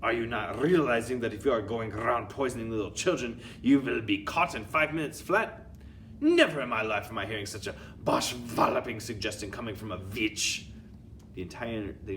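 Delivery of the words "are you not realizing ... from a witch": loud scornful screech; screeched insult. Acted. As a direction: scream abuse at the fool. Raging at culprit.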